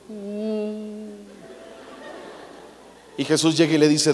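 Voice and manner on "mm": disapproving hum. Acted. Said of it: "así de".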